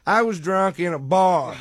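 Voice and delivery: mock drunken protest. Comedian argues his drunk-in-public charge with a cop, mock indignant.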